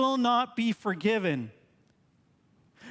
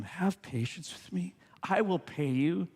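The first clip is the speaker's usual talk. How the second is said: begging in a hushed whisper; pleading whisper; 3 semitones lower, 4 dB quieter than usual. A narrator's reading. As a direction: whisper it like a desperate debtor. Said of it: "pleaded with him".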